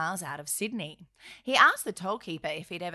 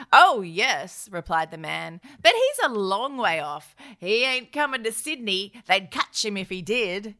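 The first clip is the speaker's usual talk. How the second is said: hammed-up, louder old toll keeper; overacted toll keeper; 4 dB louder than usual. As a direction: ham up the old man. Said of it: "Did I just overact that".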